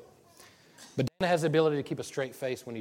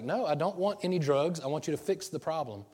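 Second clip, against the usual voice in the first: angry insistence; 5 semitones higher, 4 dB louder than usual. Retold or imitated. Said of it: "And I was really angry".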